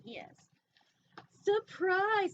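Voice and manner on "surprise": high, loud ta-da shout; spring it on them, high and loud; jump-out surprise, pitched up and louder; gleeful surprise. Acted. Angel shark pops out.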